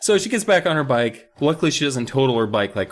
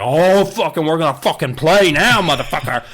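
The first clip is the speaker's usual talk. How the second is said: mock tough-guy threat; 3 semitones higher, 4 dB louder than usual. Kat furious at creature.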